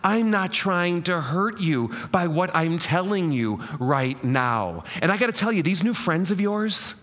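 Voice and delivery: lightly voiced mother warning about friends; a touch of an anxious mother; worried mom. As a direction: nag and plead like a mom. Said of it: "how he moms them".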